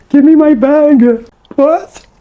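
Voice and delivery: high, laughing give me my bag; playfully snatch it back with a laugh; laughing playful demand. Real, not acted.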